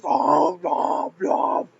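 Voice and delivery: high mock noises of a cartoon character; imitating animated princess. Gamer showing the way she goes, mock character noises. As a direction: mimic the character's animation with silly blahs. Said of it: "like, the way she goes".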